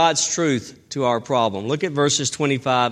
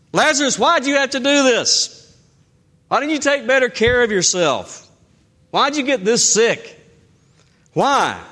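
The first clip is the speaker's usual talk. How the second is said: pained blaming cry; 8 semitones higher than usual. Pretend. Preacher voicing Jesus blaming Lazarus, in a raised anguished cry. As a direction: cry out at the dead friend in grief.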